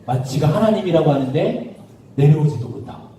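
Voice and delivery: low, muted scoffing; mocking jeer. Onlookers sneering at Jesus on the cross, mild mocking. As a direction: jeer with contempt, lightly acted. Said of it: "막 욕하고 조롱하고 무시했어요".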